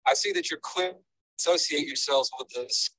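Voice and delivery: choppy phone line cutting out; breaking up phone call. Real, not acted. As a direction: caller audio dropping in and out. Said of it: "You're breaking".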